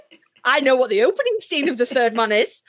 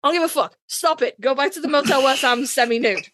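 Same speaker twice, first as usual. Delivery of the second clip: exasperated rant; 3 semitones higher than usual. Real, not acted. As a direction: throw up your hands at the screen. Ranting about Dean scenes.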